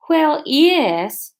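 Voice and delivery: misfired attempt at Scottish; botched Scottish accent. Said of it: "What was that?".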